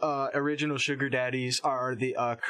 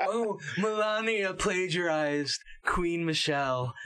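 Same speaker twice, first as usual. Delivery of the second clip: higher, drawn-out mock-scandalized quote; slow, exaggerated pearl-clutching; mock outrage; 5 semitones higher, slower than usual. Podcaster imitating scandalized resistance liberals, mock outrage.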